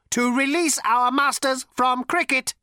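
ancient robot with a cultured rasp; cold, sleek machine voice; cold lifeless robot. A narrator's reading. Robot's character voice.

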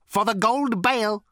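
cold raspy machine voice; rasping robot. A narrator's reading. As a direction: rasp it out coldly. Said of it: "rasped the robot".

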